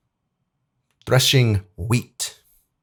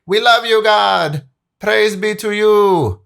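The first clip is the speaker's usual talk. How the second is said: gushing worshippers; 11 semitones higher, 4 dB louder, slower than usual. Retold or imitated. Israelites praising God, acted quote.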